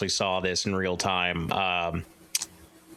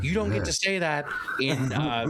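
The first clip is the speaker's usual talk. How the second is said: higher-pitched mock telling-off; retold indignation; 5 semitones higher, slower than usual. Wrestler scolding a birthday well-wisher, mock indignant. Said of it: "he got right mad".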